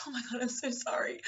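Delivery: high-pitched mock apology; mock flustered. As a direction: put on a flustered, squeaky apology. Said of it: "have me be all flustered".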